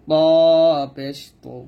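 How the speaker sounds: long ত, heavy with a full o colour; thick consonant. Shown as a demonstration. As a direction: thicken the t and round তু toward to. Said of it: "তটা মোটা হবে". (মোটা করে টেনে ত পেশ তু)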